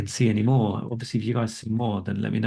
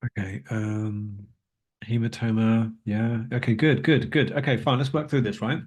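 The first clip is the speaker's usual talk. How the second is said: finishing a mouthful mid-sentence; crunching food. Real, not acted. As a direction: still chewing dates while talking. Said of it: "if you can hear me crunching away here".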